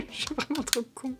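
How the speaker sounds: laughing. Real, not acted. Laughing at own blunder.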